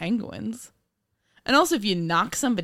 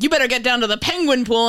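louder, higher urgent tip-off; mock urgent caller; 5 semitones higher, 6 dB louder, faster than usual. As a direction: bark the tip like an anonymous caller. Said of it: "I really wanna get a call one day to just be like".

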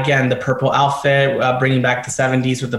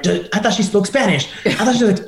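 laughing quote; 6 semitones higher than usual. Retold or imitated. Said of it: "asking her the questions like".

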